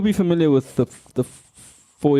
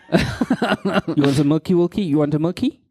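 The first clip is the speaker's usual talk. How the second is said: mock baby talk; 2 semitones higher than usual. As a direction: coo it like a parent to a toddler. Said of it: "you say things like".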